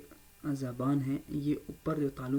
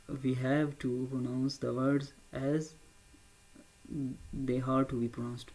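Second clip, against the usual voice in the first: very slow; much slower than usual. Shown as a demonstration. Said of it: "teaching careful delivery".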